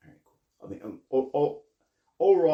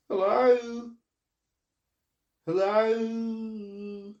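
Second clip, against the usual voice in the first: loud, high hailing call; raised hail across the water; 11 semitones higher, 10 dB louder, much slower than usual. Acted. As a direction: shout it across to the other ship. Hailing the other ship.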